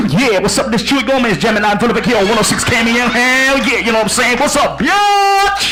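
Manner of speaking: hip-hop radio DJ. Acted. DJ opens the show on air, parodied hip-hop patter. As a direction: put on a swaggering station-host voice. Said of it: "why are you talking like that?".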